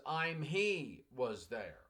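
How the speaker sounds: slow, deliberate reading of the student's broken sentence; broken sentence read slowly. Shown as a demonstration. Teacher reading a student's broken sentence to the class, slowly. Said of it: "what the student wrote was".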